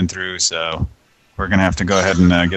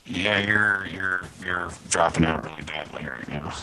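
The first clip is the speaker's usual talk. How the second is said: ham radio; 2 semitones lower, 9 dB quieter than usual. Real, not acted. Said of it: "You sound like you're on a ham radio".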